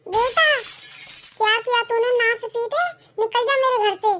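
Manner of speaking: high, furious banishing; angry outburst. Acted. Grandma ordering grandson out of her house, angry outburst. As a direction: throw him out of the house.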